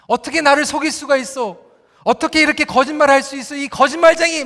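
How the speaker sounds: mock outraged accusation, rising in force; acted angry yelling. Jacob shouts at Leah for deceiving him, acted angry yelling. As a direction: play a deceived husband telling off his wife. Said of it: "막 그러면서 소리를 지르니까".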